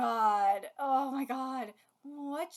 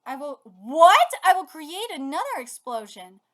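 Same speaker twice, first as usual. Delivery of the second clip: a much louder, booming declaration of the creature's plan; menacing declaration; 2 semitones higher, 10 dB louder than usual. Acted. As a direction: announce the next explosion like a threat. Creature reveals its explosive plan.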